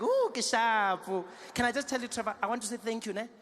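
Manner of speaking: an auntie thanking Trevor, loud and gushing; excited township auntie. Retold or imitated. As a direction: gush about the news loudly. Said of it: "She's like".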